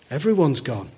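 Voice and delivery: grave, falling Everyone's gone. Shown as a demonstration. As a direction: let Everyone's sink heavily. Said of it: "It's not some people".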